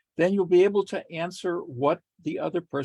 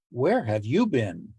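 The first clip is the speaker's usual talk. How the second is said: slow pointed accusing tone; slow, pointed, entrapping; accusing question; 3 semitones lower than usual. Shown as a demonstration. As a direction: ask it like a suspicious partner. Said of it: "Same word, slightly different, uh, intent".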